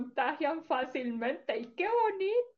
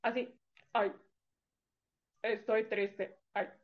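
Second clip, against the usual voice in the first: mock sad; 3 semitones lower than usual. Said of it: "como medio triste".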